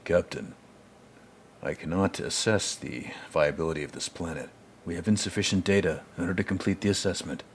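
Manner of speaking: a light mock robot reporting to the captain; lightly voiced android officer; Lance Henriksen as Data. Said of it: "Imagine Lance Henriksen on the bridge of the Enterprise, like".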